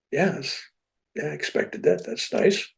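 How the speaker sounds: quietly unimpressed; unfazed. Retold or imitated. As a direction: shrug it off like it's nothing. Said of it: "That was my, my total reaction".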